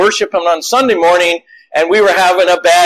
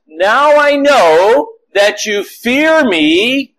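very slow and solemn; voice of God; 3 semitones higher, much slower than usual. Retold or imitated. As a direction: lay each word down with weight. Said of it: "God then says".

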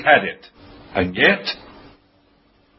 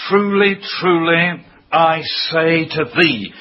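TRULY, TRULY lifted and firm, slowing on "I say to thee"; emphatic; 2 semitones higher than usual. Retold or imitated. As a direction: press home "Truly, truly", then a measured "I say to thee". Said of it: "It's an emphatic word".

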